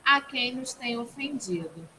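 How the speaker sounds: low, soft prayer recitation; murmured classroom prayer; recited prayer. Real, not acted. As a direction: recite the prayer quietly, falling to the amen.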